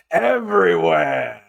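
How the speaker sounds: slow, loud, stretched mock Pacino; Al Pacino as the devil. The devil answering where he sleeps, slow loud Pacino impression. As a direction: drag the word out like Pacino's devil. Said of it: "Al Pacino pops around the corner and goes".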